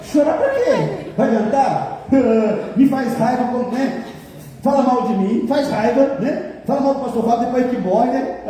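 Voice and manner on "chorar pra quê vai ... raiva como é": high, slow question through laughter; laughing. Real, not acted. Pastor joking about his own funeral, laughing high and slow. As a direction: laugh it out in disbelief.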